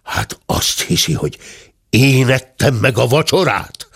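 offended bear's outburst; bellowed indignation. Acted. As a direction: start held back, then erupt on the accusation. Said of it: "bődült föl Dörmögő úr".

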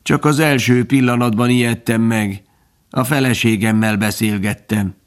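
raspy little grasshopper voice; reszelős szöcskehang. A narrator's reading. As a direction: explain it in an insect's rasp. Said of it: "felelte a szöcske reszelős hangon". (reszelős szöcskehang)

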